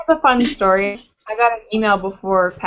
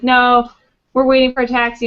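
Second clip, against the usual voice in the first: friend's louder brush-off, imitated; retold firm refusal; 3 semitones higher, 5 dB louder than usual. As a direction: turn the guy down firmly, as retold. Friend refusing a photo request.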